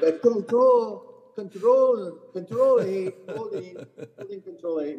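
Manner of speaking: French caddy impression. Imitating the French caddy calling the club in a French accent. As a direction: drag out control in a high French accent. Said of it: "And he's like".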